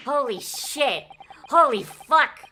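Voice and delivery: real disbelief bursting out; shocked reaction. Real, not acted. Streamer reacting to the outburst, loud shocked exclamation.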